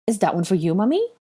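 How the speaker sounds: put-on child voice, Mummy rising high; little boy asking. A narrator's reading. Boy asks Hermione about a memo, high and curious. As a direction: innocent toddler question, pitch jumping up. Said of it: "he asked".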